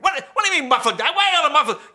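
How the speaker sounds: loud, high-pitched spluttering; incredulous angry dad. Retold or imitated. Dad to the salesman about muffler delete, incredulous shouting. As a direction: shout back in baffled outrage.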